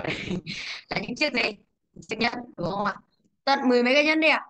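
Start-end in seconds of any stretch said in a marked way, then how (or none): 3.4-4.5 quick, higher, louder "Tận mười mấy"; surprised question. Real, not acted. Teacher to class, surprised at the many rings. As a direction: fire it off in mock disbelief.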